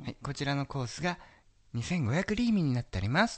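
waitress voice. Retold or imitated. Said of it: "とか言うんです".

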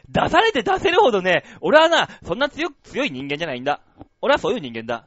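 lightly voiced brooding tough guy; Big Daddy impression. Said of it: "ビッグダディのお父さんみたいじゃん".

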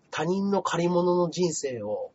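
slow, softening philosophical quote; mock-literary musing. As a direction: imitate a brooding man of letters. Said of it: "文学的なことを言ってましたけど". (文学者ぶってゆっくりと)

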